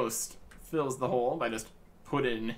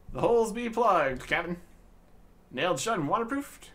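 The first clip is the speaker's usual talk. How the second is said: pirate lad; 4 semitones higher, 4 dB louder than usual. Acted. Lad reports to captain.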